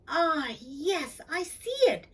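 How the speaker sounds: thrilled cow pointing at the sky; excited moo. A narrator's reading. Cow delighted by her star find. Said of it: "she mooed excitedly".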